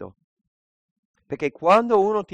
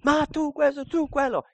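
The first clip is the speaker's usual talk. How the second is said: much higher, sharply accusing jab; squeaky pitched-up mock accusation; mock angry retort. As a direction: mimic a defensive lashing out. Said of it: "esempio brutto di come reagire".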